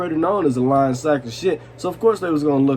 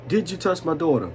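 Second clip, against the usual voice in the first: imitated auntie's strong DC accent, slightly higher; DC-area accent; 4 semitones higher than usual. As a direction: mimic a thick DC-area accent. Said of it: "she got that strong-ass D C accent".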